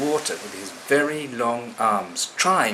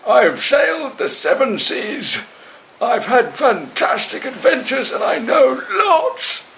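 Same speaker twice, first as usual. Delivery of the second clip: much higher, louder, slow desperate cry; spluttering plea; 8 dB louder, slower than usual. Acted. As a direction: splutter and shout while drowning. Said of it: "spluttering water as he spoke".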